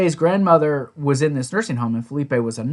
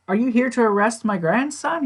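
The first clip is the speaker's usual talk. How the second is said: higher-pitched, lightly voiced grandmother; old lady; 8 semitones higher than usual. Imitating a grandmother questioning the police, high old-lady voice. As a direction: ask it as a little old lady. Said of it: "And she's like".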